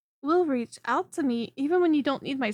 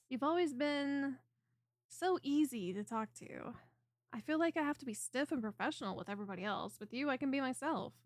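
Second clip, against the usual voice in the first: much softer, an intimate admission; soft confiding; 12 dB quieter than usual. Acted. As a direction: confide quietly, almost shyly. Confiding fondness to favorite client.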